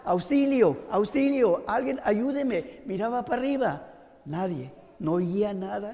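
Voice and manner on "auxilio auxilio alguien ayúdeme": raised, higher mock yell for help; retold cry for help. Hanging man begs anyone for rescue, mock shouting. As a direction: call out for rescue, half acted. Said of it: "So empieza a gritar".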